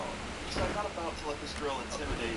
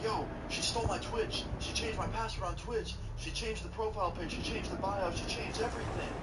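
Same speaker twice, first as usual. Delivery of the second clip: much higher, frantic retelling of panic; panicked friend; 7 semitones higher than usual. Retold or imitated. Friend telling Austin his Twitch got stolen, high panic. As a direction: pitch way up like you just got robbed. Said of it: "He's like".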